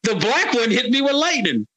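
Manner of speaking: a hammed-up Palpatine still griping; bad Palpatine impression. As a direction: whine like a wounded villain. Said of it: "worst Emperor Palpatine accent".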